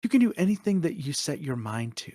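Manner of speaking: warm self-encouragement, very human; caring inner coach; really affectionate. Acted. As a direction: build yourself up fondly. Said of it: "really affectionate and, like, very humanistic".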